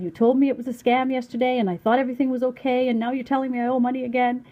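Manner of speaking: lightly faked tearful pleading, a bit fast; crying voice. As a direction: pretend to be on the verge of tears. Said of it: "put on my crying voice again".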